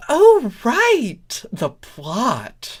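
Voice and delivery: very high, loud "oh, right"; sudden realization. Acted. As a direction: jump up high, caught out. Starlight realizes.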